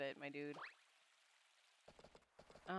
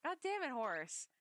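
mock grumble; 6 semitones higher, slower than usual. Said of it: "it sounds like they're saying".

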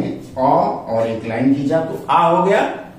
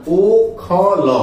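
syllable by syllable; 4 semitones higher, 4 dB louder than usual. Shown as a demonstration. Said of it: "ओखल होता है".

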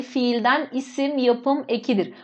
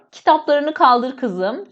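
spelled out slowly for writing; slow dictation; slower than usual. Shown as a demonstration. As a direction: dictate each word slowly for the class. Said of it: "Şöyle".

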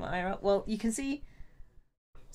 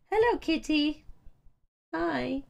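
higher voice for the cat; pet greeting; 8 semitones higher, slower than usual. Real, not acted. Streamer breaks off to greet the cat, higher pet voice.

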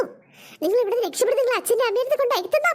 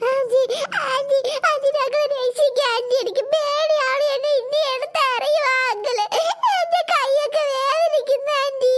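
put-on pleading child. Children begging aunt.

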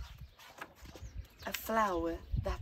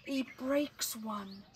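put-on slow, lilting read-aloud for children; gentle storyteller reading to kids; story narration; 2 semitones higher than usual. A narrator's reading. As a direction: tell it like a bedtime picture book. Reads picture book aloud.

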